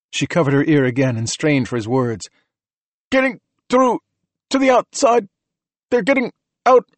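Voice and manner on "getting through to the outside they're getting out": high, broken-up urgent phrases; panicked radio report in short bursts; shouting over radio. A narrator's reading. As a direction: shout bad news through a din. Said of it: "shouting, an unholy din".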